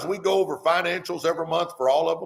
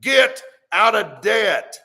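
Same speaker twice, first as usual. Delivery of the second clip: slow, louder, emphatic urging; with passion; 4 dB louder, much slower than usual. Shown as a demonstration. Livestream host urging viewers to quit debt, passionately. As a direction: drive every word home like a rallying cry. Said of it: "let me say it with a little passion".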